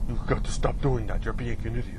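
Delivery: lightly put-on German accent. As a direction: scold in a mild German accent. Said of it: "in that German accent".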